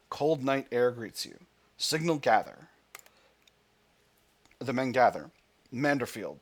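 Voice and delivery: steady dramatic narration; story narration. Acted. Player reading the landing scene, story narration.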